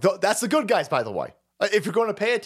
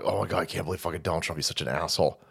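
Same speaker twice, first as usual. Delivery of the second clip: mocking upset lefty; 12 semitones lower, 6 dB quieter, much faster than usual.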